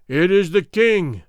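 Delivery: loud, slow booming reply; booming crowd answer. Acted. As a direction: boom it out like a crowd. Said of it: "boomed out eight thousand throats".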